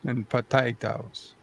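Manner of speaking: mild mock Russian-Minnesotan accent; a lightly put-on Russian accent, musing on Minnesota; Minnesotan Swede Russian accent. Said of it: "a Minnesotan Swede and crossed it with a Rusky".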